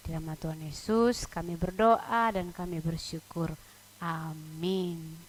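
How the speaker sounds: subdued, measured prayer. Real, not acted. Leads the children in prayer.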